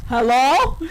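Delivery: loud phone hello. Retold or imitated. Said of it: "That's how Phoenix talks on the phone".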